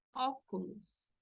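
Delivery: "óculos" with open first o, "AW-koo-loos". Shown as a demonstration. Teacher models example word, "óculos" with open O. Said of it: "con la tilde tiene sonido de O".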